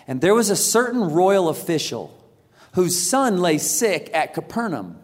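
measured, unhurried Bible reading; scripture reading. Acted. Pastor reading John chapter four aloud to the church, measured. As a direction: read the passage with care.

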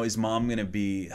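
put-on hushed, hesitant child's whisper; frightened kid barely daring to ask; scared whisper. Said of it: "he was scared to say it".

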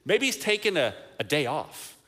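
teasing, sing-song jab at the rivals; mock the prophets with a grin in the voice; mocking taunt. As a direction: taunt them playfully. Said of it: "Elijah actually kinda taunts them".

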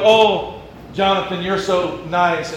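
a lightly voiced fawning church member; fawning flatterer. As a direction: gush over him, a bit too sweet. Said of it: "they like to go".

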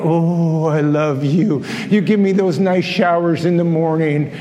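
hammed-up tender thanks to an appliance; mock love note to the tank. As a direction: croon to the tank like a lover. Voicing the hot water tank's owner.

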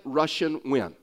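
"Russian wind" in his Texas accent, rushing said like Russian. Shown as a demonstration. Pastor showing the congregation his Texas accent on "Russian wind". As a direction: Texas twang on "Russian wind", the -ing becomes -ian. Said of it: "how I would say it".

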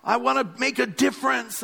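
a gentle send-up of youthful idealism; mock millennial. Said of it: "that's how we talk".

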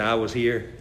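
put-on low, soft Southern accent; R G Lee. Preacher insists to the guide, low Southern accent. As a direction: imitate a Southern preacher, pitched well down. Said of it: "had a real Southern accent".

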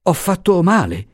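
high, alarmed cry; frightened exclamation. Acted. The professor realising his mistake, high and frightened. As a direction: gasp it out scared. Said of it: "esclamò il professore spaventato".

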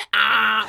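mule bray shout. Pretend.

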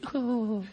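soft mock giggle; muffled little titter, as from inside a tent; imitated giggle. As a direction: giggle quietly, imitating someone hidden away. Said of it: "you hear this giggling in the tent".

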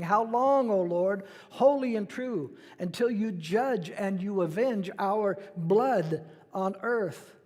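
crying out. Acted. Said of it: "they cried with a loud voice".

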